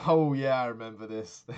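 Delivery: real laughter breaking through loud recall; sudden laughing remembrance. Real, not acted.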